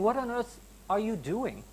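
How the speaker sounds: a mild posh British "what on earth"; a touch of posh British disbelief; posh British accent. Retold or imitated. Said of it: "he says it in a posh way".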